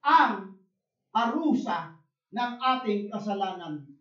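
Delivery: loud, high, driving sermon voice; full-force pulpit preaching; fiery preaching. Acted. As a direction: preach it out to the whole congregation. Preaching on wages of sin.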